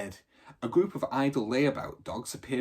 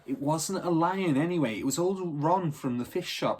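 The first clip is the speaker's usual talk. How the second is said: Thunderbolt's voice; 5 semitones higher, 3 dB louder than usual. Acted. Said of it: "said Thunderbolt".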